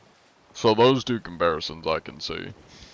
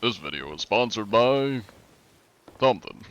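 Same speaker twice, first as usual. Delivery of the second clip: sponsor read; 3 semitones higher than usual. Pretend. Streamer to chat faking a sponsor read, mock announcer. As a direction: tease a fake ad spot. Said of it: "I'm doing an info-, infomercial".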